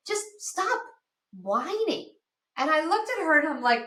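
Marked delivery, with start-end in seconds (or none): 0.1-2.1 retold scolding. Friend scolding her at yoga.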